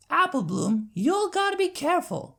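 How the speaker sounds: firm but caring telling-off; scolding Applejack. Acted. Applejack scolds after the trip.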